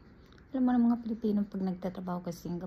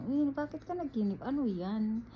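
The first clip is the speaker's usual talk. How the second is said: surprised question; 3 semitones higher than usual. Retold or imitated. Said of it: "Sabi niya".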